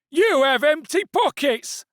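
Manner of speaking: slow, loud, high accusing shout; angry stallholder. A narrator's reading. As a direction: spit out each word.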